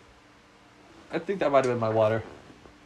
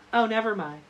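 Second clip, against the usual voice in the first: voice breaking high; 10 semitones higher than usual. Retold or imitated. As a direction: voice cracks up high. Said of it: "then I talk like".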